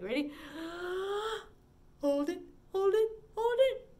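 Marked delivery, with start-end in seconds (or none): 0.4-1.4 big audible inhale; gasping inhale for the kids; deep breath in. Shown as a demonstration. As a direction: suck in a huge breath. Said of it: "take a deep breath and hold it".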